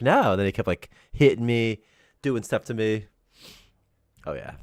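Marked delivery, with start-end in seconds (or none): 0.0-0.3 loud, high no; firm no. Retold or imitated. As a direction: shut it down. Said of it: "I'm like".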